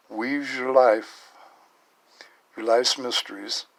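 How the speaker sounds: earnest, solemn reading aloud; message reading. Acted. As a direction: read the angels' message with feeling. Reads the angel card message.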